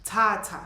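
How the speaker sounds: "Tata" with a spitty aspirated t. Shown as a demonstration. Teacher models "Tata" like a spit. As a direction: puff air out on the t of "Tata". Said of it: "like you spit when you say tata".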